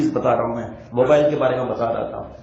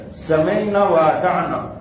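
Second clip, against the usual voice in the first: سمعنا و اطعنا drawn out very slowly; slow recitation; much slower than usual. Shown as a demonstration. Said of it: "Quranic phrase recited slowly". (آہستہ تلاوت کے انداز میں)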